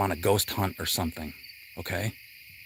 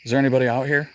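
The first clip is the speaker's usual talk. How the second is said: louder calling into the dark, playing ghost hunter; 6 dB louder, much faster than usual. Ghost hunter calling to spirits, loud pretend call. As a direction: call out to empty woods, mock spooky. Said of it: "pretend I'm on a ghost hunt".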